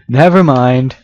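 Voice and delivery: laughing it off. Real, not acted. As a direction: say it through a laugh.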